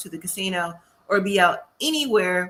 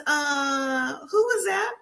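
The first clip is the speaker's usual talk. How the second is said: shocked outburst; 4 semitones higher, slower than usual. Retold or imitated. Girlfriend confronts him, retold.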